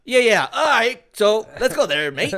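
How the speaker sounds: a hint of a mock British accent, laughing; bad British accent. Host carries the joke British accent on, laughing. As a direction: toss it off like a British bloke. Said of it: "is that the worst U K accent ever".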